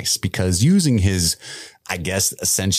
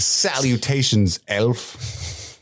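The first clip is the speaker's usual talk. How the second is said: deadpan greeting; much slower than usual. Shown as a demonstration. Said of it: "go into work Monday and just say that".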